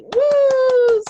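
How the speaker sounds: high, loud cheering whoop; excited whoop. Real, not acted. Host cheering the top seller on the call, high excited whoop. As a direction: cheer her on like she's in the room.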